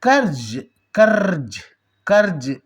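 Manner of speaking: कर्ज said slowly with a clear rolled अर sound; demo pronunciation. Shown as a demonstration. Teacher modelling कर्ज for students, carefully pronounced. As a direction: sound out कर्ज three times for the class. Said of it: "आप बोलकर देखिए".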